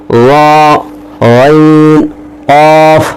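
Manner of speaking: صاد طا غین قاف with full, heavy sound; heavy letters. Shown as a demonstration. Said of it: "آٹھ حروف وہ ہیں جو پر پڑھے جائیں گے".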